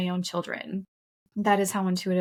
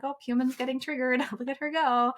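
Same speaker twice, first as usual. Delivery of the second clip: amused laughing; 5 semitones higher than usual. Retold or imitated. Joking about being triggered.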